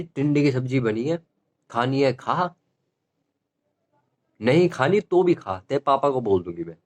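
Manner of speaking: mom's scolding threat, mildly acted; a hint of a stern mother; imitating mom. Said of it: "mummy कह रही". (माँ की हल्की डांट की नकल)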